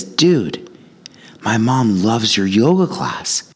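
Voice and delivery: high, slow lightly voiced teen; a hint of an eager kid; friendly teen. Kid telling jogger his mom loves the yoga class, high teen voice.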